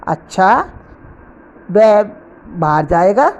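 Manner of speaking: अच्छा lifted at the end, then जाएगा rising; mild demonstrated surprise on अच्छा. Shown as a demonstration. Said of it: "आश्चर्य के रूप में". (अच्छा पर हल्का आश्चर्य, अंत में चढ़ता सुर)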